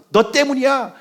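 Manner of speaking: high-pitched mock accusation; acted blaming. Israelites turning on their leader in trouble, high accusing complaint. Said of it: "원망하고 다투고 불평하고".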